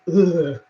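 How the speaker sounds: short recoiling groan; a gut-level ugh of discomfort; disgusted ugh. Real, not acted. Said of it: "I can feel myself going".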